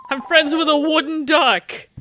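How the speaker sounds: high, loud cheer of Hooray; overjoyed about a wooden duck, high-pitched; gleeful kid cheering over a toy; childlike glee. Acted.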